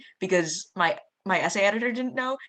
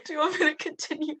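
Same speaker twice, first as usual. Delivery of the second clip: very high squeaky cartoon mouse voice; Mickey voice; 6 dB louder than usual. Student reading Nani's letter in a high Mickey voice. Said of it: "can you do a voice".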